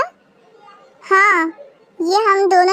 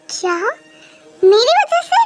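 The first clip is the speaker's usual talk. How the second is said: indignant outburst; 4 semitones higher than usual. Acted. Mom outraged at being blamed.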